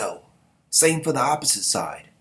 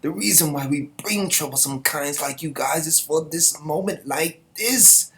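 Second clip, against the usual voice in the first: commander's call; 6 semitones higher than usual. Acted. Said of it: "this is Moran".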